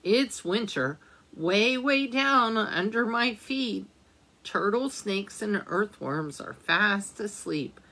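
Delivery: gentle storybook reading aloud; reading to children. A narrator's reading. Teacher reading a winter book to children, gentle storytelling. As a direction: read it like a picture book for little ones.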